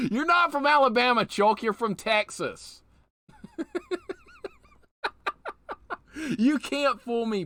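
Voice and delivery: loud, high-pitched exclamation; laughing outburst. Real, not acted. Streamer calling out a friend's false claim, loud and amused. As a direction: burst out loudly, fresh from a laugh.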